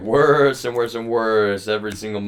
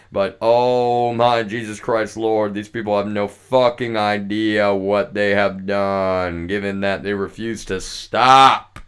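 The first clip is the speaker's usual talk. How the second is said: louder, slowed fury, dragging the words out; angry outburst; 7 dB louder, slower than usual. Real, not acted. Ranting at the people who wronged him, loud and furious. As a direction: let the outrage boil over at full volume. Furious rant at former coworkers.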